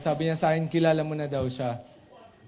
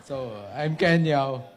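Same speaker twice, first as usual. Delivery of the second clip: tipsy; 2 semitones lower, slower than usual. Real, not acted. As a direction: talk like you've had a few. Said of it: "lasing na ako eh".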